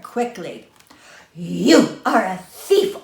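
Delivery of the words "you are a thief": slow, loud accusing shout; shouted accusation. Acted. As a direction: fling the word thief at him. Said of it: "Old Woman shouted at Coyote".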